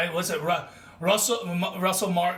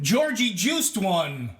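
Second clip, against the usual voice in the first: mock announcer call; 3 semitones higher, 3 dB louder, much slower than usual. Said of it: "throws out the fucking".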